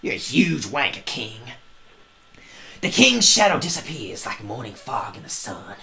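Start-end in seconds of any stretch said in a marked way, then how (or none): 0.0-1.4 soft, low grumble; muttered insult. Real, not acted. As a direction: mutter it under your breath.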